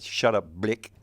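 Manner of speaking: botched Aussie, South African-sounding; mock South African accent. Actor repeating the director's bad line, South African-sounding accent. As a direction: clip the vowel into South African. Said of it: "as soon as he said".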